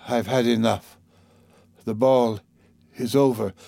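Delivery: a hint of a dying mother, weary and resigned; lightly voiced dying mother. Dying mother hands children over to Sonia, lightly voiced weariness.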